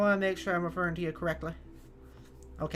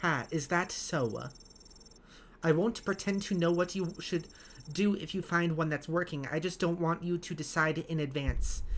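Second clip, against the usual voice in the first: British voice, very heavy consonants; measured, over-pronounced consonants; Helga. Acted. British game character dashing off, heavily pronounced consonants. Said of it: "I'm just pronouncing the consonants very heavily".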